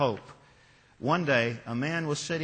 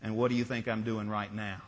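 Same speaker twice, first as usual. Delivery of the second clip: calm smiling reply; 5 semitones lower, 5 dB quieter than usual. A narrator's reading. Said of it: "the fisherman was still smiling".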